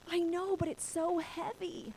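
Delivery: high, slow, tearful whine; imitated crying. Daughter crying to father in the dream, tearful. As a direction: plead it as if crying. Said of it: "I had to cry in the dream".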